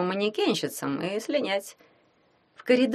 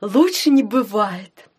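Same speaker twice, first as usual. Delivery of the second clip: bright, louder upbeat reply; brisk and cheerful; 3 semitones higher, 5 dB louder, slower than usual. Acted. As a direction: say it briskly, all is fine. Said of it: "бодро сказала тётя Нинель".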